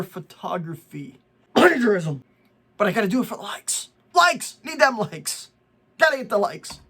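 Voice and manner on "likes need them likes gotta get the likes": hammed-up greedy yelp; mock craving cry. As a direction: cry out for likes like an addict. Mocking like-chasers.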